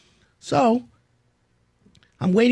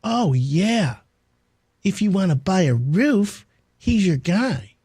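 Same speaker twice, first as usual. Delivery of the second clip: snarky; 4 semitones higher, slower than usual. Retold or imitated. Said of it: "like in a snarky way".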